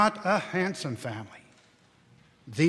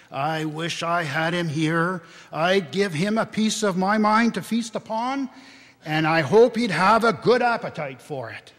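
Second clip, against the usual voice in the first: louder, rising anger at the absent boss; angry; 2 semitones higher, 5 dB louder than usual. Acted. Wife fumes to her husband about his employer, louder and angry. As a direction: give him a piece of your mind. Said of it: "cried Missus Cratchit, reddening".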